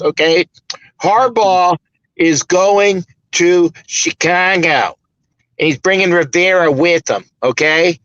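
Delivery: weak Chicago accent, drawn out slowly; half-hearted try at a Chicago accent. Shown as a demonstration. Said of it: "Trying to do a Chicago accent. It wasn't really good".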